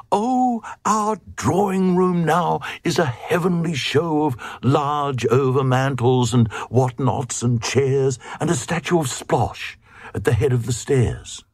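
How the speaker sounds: very high, delighted lady's voice; gushing queen. Acted. Queen showing off her drawing room in a high gushing voice. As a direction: brag about the lovely room.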